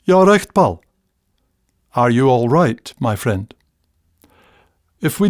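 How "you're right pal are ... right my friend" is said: concerned friend in broad Scots. Retold or imitated. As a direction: check on a pal in broad Scots. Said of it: "might receive".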